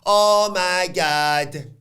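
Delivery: loud, drawn-out mock astonishment; stretched-out, high-pitched commentator's outburst; mock commentary exclamation. Mimics commentary for wished-for guest.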